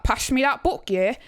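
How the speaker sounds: Yorkshire starter line with a tagged-on question; Yorkshire accent demo. Shown as a demonstration. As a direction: slip back into broad Yorkshire. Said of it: "tap into a Yorkshire accent".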